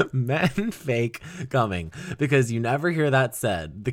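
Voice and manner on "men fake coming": P=B; slow savored repeat. Shown as a demonstration. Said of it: "repeating the punchline".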